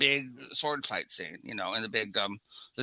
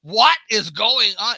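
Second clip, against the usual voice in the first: incredulous; 8 semitones higher, 9 dB louder, slower than usual. Retold or imitated. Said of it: "I was like".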